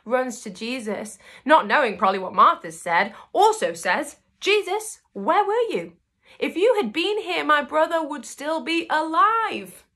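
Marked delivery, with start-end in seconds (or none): 4.4-9.8 much higher, crying-edged voice; a sister's heartbroken cry; anguished plea. Retold or imitated. Mary reaching Jesus after her brother died, high anguished plea.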